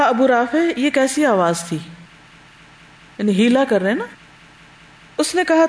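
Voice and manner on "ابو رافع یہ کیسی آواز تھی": disguised voice. Retold or imitated. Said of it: "اور آواز بدل کر آئے".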